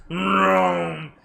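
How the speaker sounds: loud, drawn-out imitated vroom; engine noise. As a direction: imitate a bus roaring past.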